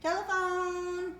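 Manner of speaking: slow, drawn-out Telephone!; coaxing cue word. Shown as a demonstration. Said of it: "What's the telephone do?".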